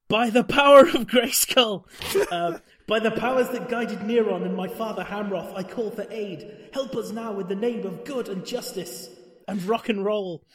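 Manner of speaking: hammed-up heroic battle cry; heroic invocation. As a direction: call on the gods like a cartoon hero. Heroine calls on the god.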